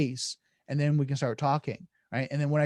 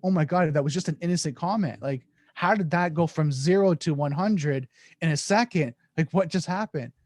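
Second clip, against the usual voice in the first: incredulous reaction; 2 semitones higher than usual. Acted. Acted shock at sudden escalation.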